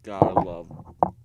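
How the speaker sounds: slow, loud mock slogan; drawn-out loud catchphrase. Shown as a demonstration. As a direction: belt it out slowly like a slogan. Repeats catchphrase in two ways.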